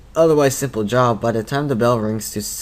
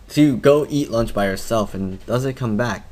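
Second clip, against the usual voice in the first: usual speaking voice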